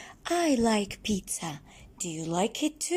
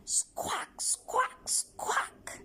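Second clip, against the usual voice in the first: squeaky breathless parrot squawk; 13 semitones higher, 5 dB quieter, much slower than usual. Retold or imitated. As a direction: screech like a parrot for the kids. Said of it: "A parrot goes like this".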